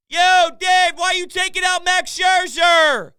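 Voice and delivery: loud, high-pitched heckling shout; yelling. Retold or imitated. Fan yelling at Dodgers manager late at night, heckling shout. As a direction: yell at the manager through the television. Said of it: "yelling at Dave Roberts".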